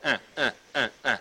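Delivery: short repeated "uh" grunts; mock jostling grunts. Preacher acts out rubbing against a neighbor, playful grunts. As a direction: imitate bumping against someone's sharp edges.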